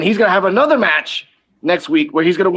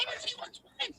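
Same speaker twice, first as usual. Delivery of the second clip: retold jubilation; 16 dB quieter, much slower than usual. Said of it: "I'm like, I jumped".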